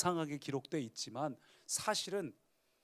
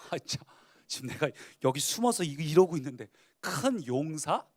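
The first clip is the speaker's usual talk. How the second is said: growing anger; 2 semitones higher, 5 dB louder than usual. Acted. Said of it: "기도는 화가 나기 시작했어요".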